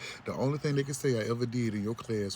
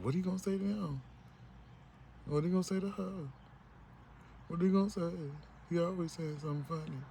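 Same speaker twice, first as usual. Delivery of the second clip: mock hater; 7 semitones higher, 4 dB quieter, faster than usual. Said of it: "you secretly hating was like".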